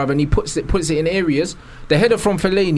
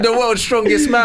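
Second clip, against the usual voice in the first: laughing; 3 semitones higher than usual. Real, not acted. Laughing at the comparison.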